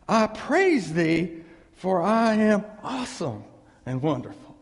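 loud, proud proclamation of the verse; mock boastful reading. Shown as a demonstration. Preacher reading the psalm as a boast. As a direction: read it like bragging about yourself. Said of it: "that's what it says".

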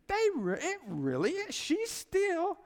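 high, loud, drawn-out proclamation; emphatic preaching. Real, not acted. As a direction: drive it home slowly, voice soaring. Preacher hammering his main point.

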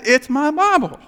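loud, curt possessive snap; guard the book sharply; annoyed retort. Retold or imitated. Snapping back at seatmate.

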